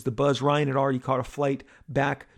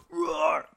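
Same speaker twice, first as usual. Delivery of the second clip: short mock crowd roar; imitated crowd roar; 2 semitones higher than usual. Crowd answering Ryan on the mic, imitated roar. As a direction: answer like a cheering audience. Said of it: "they're screaming".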